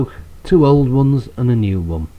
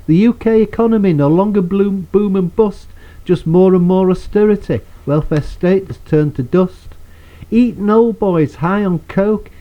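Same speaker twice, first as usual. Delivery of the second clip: rhythmic, punchy ranting verse; poem recitation; 3 semitones higher than usual. Acted. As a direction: declaim it like an angry protest poet.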